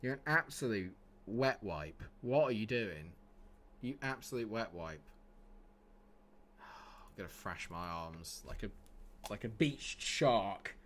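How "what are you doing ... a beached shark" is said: ordinary delivery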